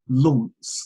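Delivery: "Luntz" said as Launce, with an aw vowel; mock British "Luntz", spelt L-A-U-N-C-E; imitated mispronunciation. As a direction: exaggerate "Luntz" into a long "Lawnce". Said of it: "that I say it like".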